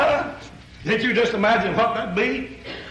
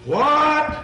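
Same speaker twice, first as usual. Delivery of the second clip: short, high, louder startled yelp; shocked what; 6 semitones higher, 4 dB louder than usual. Retold or imitated. A brother shocked that Peter goes to Gentiles. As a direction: jolt of disbelief at the news. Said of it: "Didn't you just hear the reaction".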